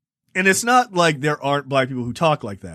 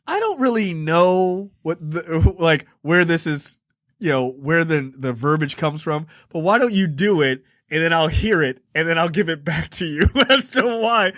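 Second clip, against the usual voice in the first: imitated careful evasion. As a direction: tiptoe round it, imitating someone avoiding the point. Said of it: "trying so desperately to avoid saying".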